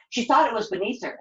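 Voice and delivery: ordinary delivery, nothing marked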